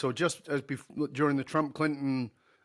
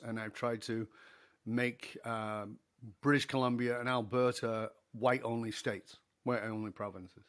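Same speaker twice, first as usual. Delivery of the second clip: hesitant confession; 4 semitones lower, 5 dB quieter than usual. Retold or imitated. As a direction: push the words out reluctantly, dropping low. Confession after long hesitation.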